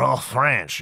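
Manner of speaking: mock stage French accent. Shown as a demonstration. Host demonstrating the French characters' speech, mock French accent. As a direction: slip briefly into hammed-up French. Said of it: "those who are playing the French characters".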